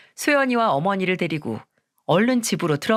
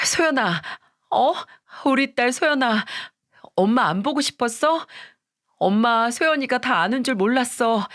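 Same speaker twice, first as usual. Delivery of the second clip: mother fawning over her daughter, slightly raised voice; coaxing mother; 4 semitones higher than usual. Acted. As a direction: coax your little girl. (딸에게 매달리는 엄마 목소리)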